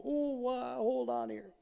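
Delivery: lightly voiced friend fumbling with the mat; flustered friend. Friend holding the mat mid-lowering, a touch flustered.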